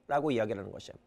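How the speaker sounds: ordinary talk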